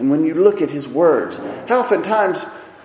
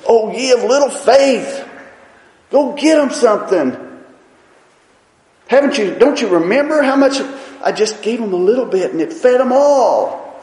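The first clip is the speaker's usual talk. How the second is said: frustrated; 4 semitones higher, 5 dB louder than usual. Retold or imitated. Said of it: "He got frustrated".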